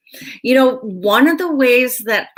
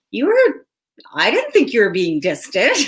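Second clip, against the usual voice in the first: surprised friend. Retold or imitated. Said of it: "they're like".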